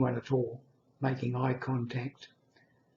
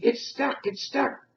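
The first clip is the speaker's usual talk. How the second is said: put-on crying baby voice; 11 semitones higher than usual. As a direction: whimper it like a trapped newborn. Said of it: "my voice suddenly became a baby voice".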